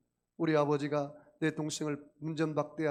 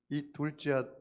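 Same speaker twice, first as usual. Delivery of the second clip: normal talking voice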